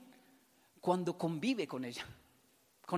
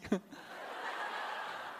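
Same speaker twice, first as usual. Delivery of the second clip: real laugh; 6 dB quieter than usual. Real, not acted. Laughter at the story.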